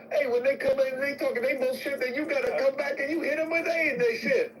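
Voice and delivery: street voice. Acted. Voices someone in a street manner.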